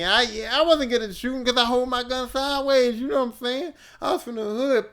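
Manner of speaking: hyped telling the hood gun story; excited. Real, not acted. Comedian to audience about shooting sideways, hyped and loud.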